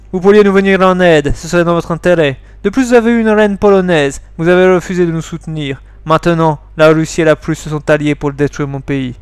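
lightly put-on Slavic accent; Polish accent. Accused soldier asks France for help, put-on Polish accent. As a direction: argue your country's case with a Polish accent. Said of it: "il faut que je prenne un accent polonais".

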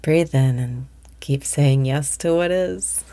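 calm, even breathing instructions; guided meditation. Acted. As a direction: guide the listener gently through the breath. Meditation cues resume.

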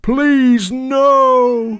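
high, loud begging; pleading cry. A narrator's reading. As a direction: beg in dismay. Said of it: "cried the cows".

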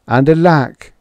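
ordinary delivery, nothing marked

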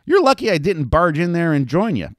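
high, mock-shocked; gasping. Betty gasping at Lulu, mock-scandalized and high. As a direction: act scandalized. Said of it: "Betty gasped".

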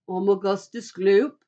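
lightly voiced boy character; a hint of a character voice; boy's self-introduction. A narrator's reading. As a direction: announce your name a little loudly. Fat boy introduces himself.

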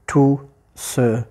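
"tout ce passé" broken up with gaps; syllable-by-syllable count. Shown as a demonstration. Teacher showing the caesura, "tout ce passé" in separate syllables. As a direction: split "passé" between its two S sounds. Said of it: "je peux avoir la césure entre les deux".

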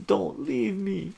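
high, loud begging cry; desperate plea. Acted. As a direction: plead for her to stay. Ataru pleads as she leaves.

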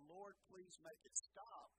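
restrained re-enacted yell; retold yell. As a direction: stretch it out like a pleading cry, half-shouted. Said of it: "was when I yelled".

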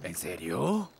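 low, soft sceptical query; low doubting question. Acted. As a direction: doubt it quietly. Asks doubtfully.

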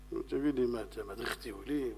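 low, soft grumble; muted, low-pitched impatience; irritated passenger. Acted.

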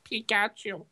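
the catchphrase dropped low, with no squeal; low, deflated repeat. Shown as a demonstration. Co-host after friend disagrees, low deflated delivery. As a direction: say it low and understated.

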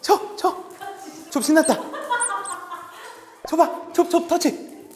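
high, loud cheering at the dog; excited play talk. Real, not acted. Trainer hyping the dog mid-game, high and loud. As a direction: pump the dog up.

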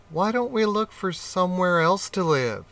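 a hint of a bright little rat; rat's eager question. Rat voiced in children's story.

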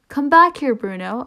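loud call after a runaway dog. Acted. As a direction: shout it across the street to your dog. Owner calls after runaway dog.

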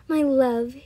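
loud, lightly moaned endearment; mild moan. A narrator's reading. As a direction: moan it with longing, only mildly. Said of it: "he moans".

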